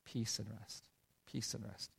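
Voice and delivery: soft murmured prayer of peace; whispered prayer. Retold or imitated. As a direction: whisper it into her ear. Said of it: "I would just pray those words".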